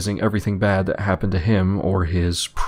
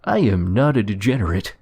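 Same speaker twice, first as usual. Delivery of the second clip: pompous principal; 3 semitones higher than usual. Retold or imitated. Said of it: "he opened with".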